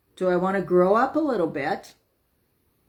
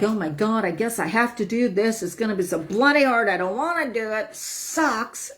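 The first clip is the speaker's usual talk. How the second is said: put-on whiny inner child; 2 semitones higher than usual. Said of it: "that's just your inner child".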